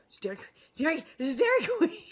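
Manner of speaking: gleeful, rising excited delight; giddy announcing the treat. Retold or imitated. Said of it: "he's like".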